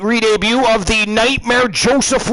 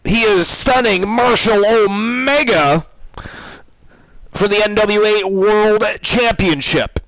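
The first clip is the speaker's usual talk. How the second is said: announcer intro. Acted. Streamer announcing the title match, announcer style. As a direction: ring announcer voice.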